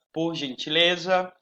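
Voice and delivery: "Por gentileza" slowly, G pronounced like zh; careful G sound. Shown as a demonstration. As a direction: model the zh sound starting "gentileza". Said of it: "da letra G". ("Por gentileza" devagar, com G bem pronunciado)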